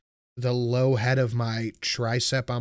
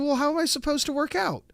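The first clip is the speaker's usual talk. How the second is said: mock dismay. Retelling dismay at no weightlifting.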